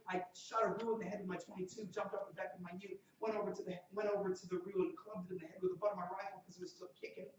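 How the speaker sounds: worked-up imitation of a storyteller; excited retelling. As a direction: tell the hunting yarn with gusto. Excitedly pitching the student's hunting story.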